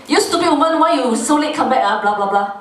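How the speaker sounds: lightly hammed-up nagging; mock scolding. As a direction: scold like an irritated spouse, trailing into blahs. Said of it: "my husband scolded me".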